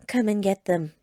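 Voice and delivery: challenging, falling at the end; defiant. A narrator's reading. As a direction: dare him to try. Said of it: "Sarah said defiantly".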